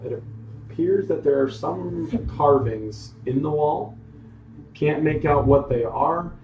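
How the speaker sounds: measured storytelling in separate phrases; game master narration. Acted. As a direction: describe the scene to your players, pausing between details. Game master sets scene.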